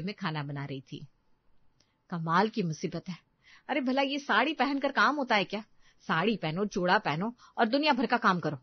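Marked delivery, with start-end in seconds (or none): 2.1-8.6 a touch of irritated complaint; mildly annoyed daughter-in-law venting; angry grumbling. Acted. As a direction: grumble crossly about the chores. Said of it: "Urvi की गुस्से की आवाज".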